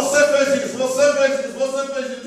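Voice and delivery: quick insistent finger-jabbing repetition; imitated accusing preacher; rapid repeated accusation. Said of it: "ficava falando comigo assim".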